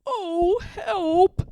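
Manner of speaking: high, loud yelp of alarm; falling bear yells for help; cry for help. A narrator's reading. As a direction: shout as you lose your grip. Falling from the tree.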